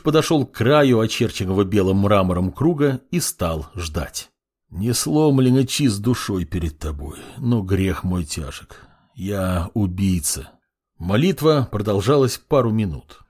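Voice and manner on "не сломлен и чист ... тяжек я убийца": slow, heavy confession; тихая тяжёлая исповедь; prayer. Acted. Prayer continues.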